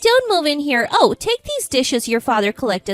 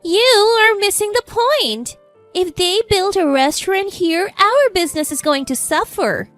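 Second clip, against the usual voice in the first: high, indignant mother-in-law shout; 8 semitones higher, 5 dB louder than usual. A narrator's reading. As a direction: raise pitch and voice in outrage. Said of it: "mother-in-law shouts".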